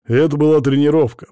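insisting it was "тренировка", stress on "была"; sheepish excuse to his daughter; defensive. A narrator's reading. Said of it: "принялся оправдываться Сажин".

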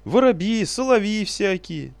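very high, loud shrieking; piercing shriek. Acted. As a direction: scream it shrilly. Sage keeps shrieking scornfully.

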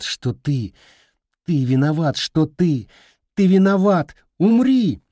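furious scream. Acted. Boy screaming at his grandmother, rising from tense to shrieking. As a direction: build it until it breaks into a scream. Boy's fury builds into a scream.

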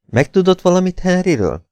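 magas hangú, sürgető kérdés; kérdezd sietősen, jóval magasabb hangon; gyors kérdés. A narrator's reading. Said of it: "kérdezte gyorsan". (sietős, magas hangú kérdezés)

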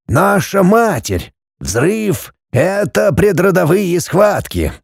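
a hint of a mystic old man explaining; old Kofler's voice. Kofler insists.

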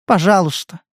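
plain reading voice

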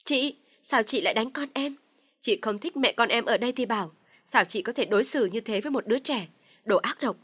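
high, loud accusing shout; shrill outburst. Acted. Dung screams at her sister-in-law for hitting her child. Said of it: "cào hét ầm lên".

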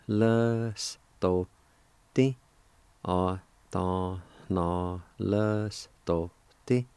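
A ta na les to ti, each syllable spoken separately; syllable-by-syllable demo. Shown as a demonstration. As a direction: model A, ta, na, les, to, ti slowly for learners. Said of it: "is pronounced like this".

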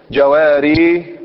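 جواري stretched slowly to show how heavy it is; heavy on the tongue. Shown as a demonstration. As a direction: drag جواري out to show the strain. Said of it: "صعب على اللسان". (جواري بنطق ثقيل ممدود)

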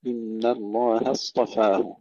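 slow إن الله اصطفاه with thin ن and هـ; thin هـ before heavy ص in الله اصطفاه; light noon and haa. Shown as a demonstration. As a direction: recite إن الله اصطفاه drawn out, هـ of الله kept light. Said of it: "ترقيق النون والهاء".

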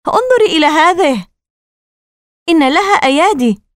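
high-pitched, horrified exclamation; alarmed cry. Acted. Casey backing away, staring at his sister, alarmed cry. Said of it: "صرخ كيسي وهو يرجع إلى الخلف".

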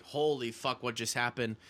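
stunned mutter. Retold or imitated. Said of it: "I'm like".

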